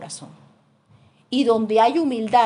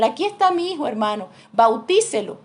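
mother insisting; 2 semitones higher, 4 dB louder than usual. Retold or imitated. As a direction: present him like a mother who will not be argued with. Mother voiced presenting son.

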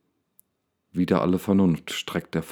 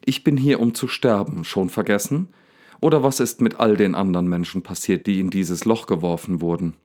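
furious. Acted. Daniel snaps at the lion about dying, furious. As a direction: let him lose it completely. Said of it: "völlig aus der Haut fahren".

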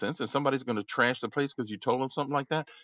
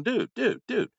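mock exasperated lecture, pitched up; lecturing a maskless man, half-acted; retelling telling off a customer, mock exasperated; retold scolding; 2 semitones higher than usual.

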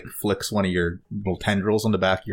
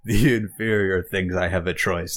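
laughing voice box. Acted. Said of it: "it almost is like it's laughing".

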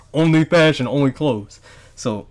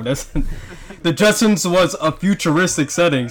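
slow, amused correction through laughter; laughing while talking; 3 semitones higher, slower than usual. Real, not acted. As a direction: laugh it out as you correct him. Mocking friend's wrong cartoon.

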